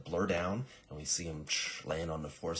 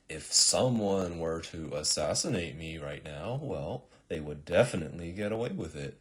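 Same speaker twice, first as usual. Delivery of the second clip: a hint of a stagey king; unsuspecting king monologue; 5 dB louder than usual. King practically begging to get shot, lightly hammed-up musing. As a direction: muse aloud, lightly overplayed. King baits the hidden assassin.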